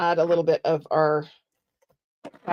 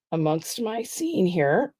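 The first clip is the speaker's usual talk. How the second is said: voice crack; slower than usual. Real, not acted. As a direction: voice cracking mid-phrase. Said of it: "that was an interesting little voice crack".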